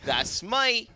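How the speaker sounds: put-on a deliberately horrible, high-pitched British accent with "me" stretched toward "my"; mock British accent, bad on purpose. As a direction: ham up a terrible British accent, pitched well above your own. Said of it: "horrible, horrible British accent".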